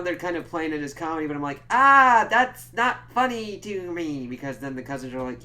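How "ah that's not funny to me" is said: exasperated outburst. Retold or imitated. Own reaction acted as quote.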